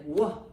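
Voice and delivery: "wha" as a rounded w sound; letter sound. Shown as a demonstration. Teacher sounding out W for children, short "wha". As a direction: say "wha" as one short w syllable. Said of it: "Sounds like".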